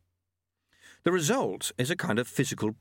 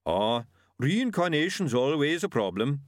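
bigfoot grunting; 4 semitones higher than usual. A narrator's reading. Yeti speaks in story.

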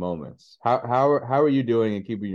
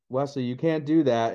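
measured reprimand, trying to stay composed; forced calm parent; 3 semitones higher than usual. Retold or imitated. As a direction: keep your composure while correcting a toddler. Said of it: "trying to say that in a calm voice".

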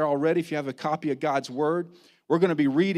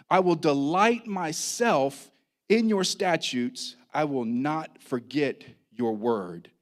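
deliberate, emphatic psalm reading with weighty pauses; scripture reading; 3 dB louder than usual. Real, not acted. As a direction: proclaim the psalm to the congregation.

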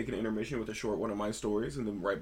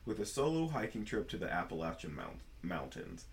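storytelling voice. Shown as a demonstration. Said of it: "storytelling voice for realsies this time".

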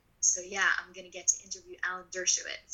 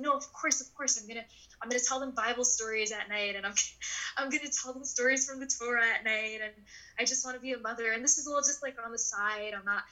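higher, eager people-pleasing; smooth it over brightly, pitched up; PR cleanup mode; 4 semitones higher than usual. Retold or imitated. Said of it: "clean up P R mode".

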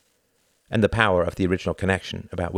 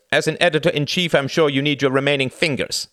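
higher, louder menacing order; threatening demand; 7 semitones higher, 6 dB louder than usual. A narrator's reading. The first gunman threatens the editor, loud menace. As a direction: push him hard for the answer. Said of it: "said the first voice".

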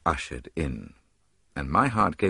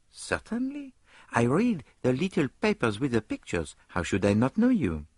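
higher, easy Belgian detective; higher Poirot, relaxed; 6 semitones higher than usual. A narrator's reading. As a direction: wave it off lightly as Poirot. Poirot smiling at Lord Esther.

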